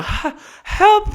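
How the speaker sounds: very high, loud squeal for help; hammed-up high yelp of help; panicked cry for help. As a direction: shriek it like the dog has your arm. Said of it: "look to the owner and go".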